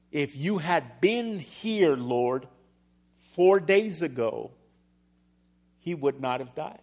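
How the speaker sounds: slow, drawn-out reproach, lightly voiced; reproachful Martha. Martha telling Jesus her brother need not have died, slow and reproachful. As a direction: lean on the regret, slowly.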